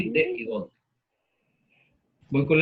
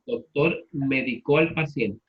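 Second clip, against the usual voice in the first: slow sentence, "medicó" as me-di-CÓ; stress on the last syllable. Shown as a demonstration. Teacher repeating the example slowly, "medicó" stressed on CÓ. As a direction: stress the final CÓ of "medicó", unhurried. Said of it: "la voy a pronunciar de la siguiente manera".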